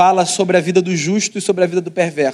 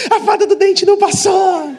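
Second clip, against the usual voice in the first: high, loud mock crying shout of a little boy; dramatic child wail; 13 semitones higher, 3 dB louder than usual. Son wailing to dad about the tooth fairy, dramatic cry. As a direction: wail it like a kid making a scene. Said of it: "Aquele choro do drama".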